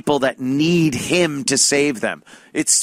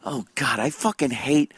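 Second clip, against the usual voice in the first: mumbling to self; 5 dB quieter than usual. Retold or imitated. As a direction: grumble it privately under your breath. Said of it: "I'm just mumbling to myself".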